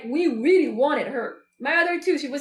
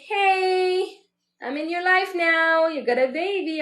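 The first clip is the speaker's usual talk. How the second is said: drawn-out, slightly raised hey; baby announcing itself; 3 semitones higher, slower than usual. Acted. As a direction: announce your arrival, stretching the words. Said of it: "instead of saying".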